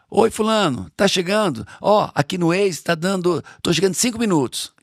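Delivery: high, breezy put-on voice of someone telling a small lie; mock casual fib. Father mocking a late friend's phone excuse, high breezy put-on voice. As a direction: toss off the excuse lightly, as if it were nothing. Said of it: "tipo assim".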